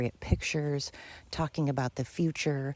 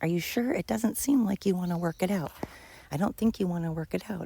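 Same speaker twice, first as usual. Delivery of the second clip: higher, quicker retold pleading; wife keeps asking her husband if he's sure, higher-pitched pleading; imitating wife's doubtful questions; 4 semitones higher than usual. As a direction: mimic the wife pressing him, pitched up. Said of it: "she kept saying".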